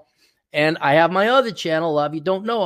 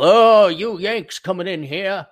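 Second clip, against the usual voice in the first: mock Southern colonel; 2 semitones higher, slower than usual. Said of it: "Picturing a big Colonel Mustard".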